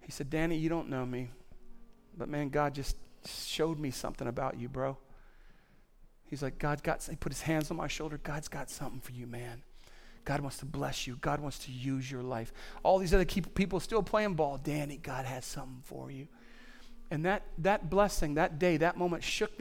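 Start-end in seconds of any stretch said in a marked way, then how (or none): 0.3-8.2 hushed retelling. Retold or imitated. Pastor retells mentor's quiet blessing. 8.2-9.3 much softer, low and intimate; hushed blessing. Retold or imitated. Pastor softly repeating a mentor's blessing to the congregation, hushed. 9.3-12.5 hushed retelling. Retold or imitated. Pastor retells mentor's quiet blessing. 14.6-16.3 soft hushed blessing. Retold or imitated. Repeats mentor's quiet blessing.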